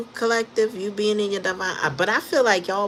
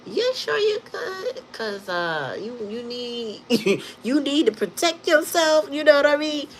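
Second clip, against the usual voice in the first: slow, high, cracking with laughter; laughing; 9 semitones higher than usual. Real, not acted. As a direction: fight through giggles. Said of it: "I'm so tickled right now".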